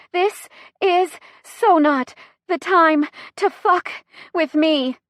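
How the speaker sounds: high, loud, slow separated words; screaming in pain. A narrator's reading. Chrissy in labor screams at SUV, word by word. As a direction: punch each word out as its own pained cry. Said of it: "punctuated by a scream of pain".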